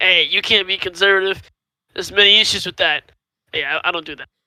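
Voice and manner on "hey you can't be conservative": ordinary talk, nothing marked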